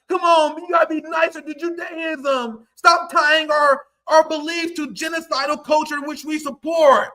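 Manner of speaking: a hint of a preachy scold, half-shouted; mock their nagging tone, lightly voiced. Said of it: "You yelling at the left".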